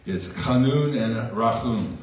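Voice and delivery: "chanun" with a throaty ch and stress on the last syllable, "rachum" with a rolled r and throaty ch, slowly; Hebrew pronunciation. Shown as a demonstration. Preacher teaching the congregation the Hebrew words, slow and sing-song. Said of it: "In, in the Hebrew".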